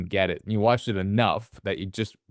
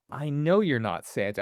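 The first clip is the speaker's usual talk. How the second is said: mock kid's plea; 4 semitones higher than usual. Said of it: "I didn't like that little".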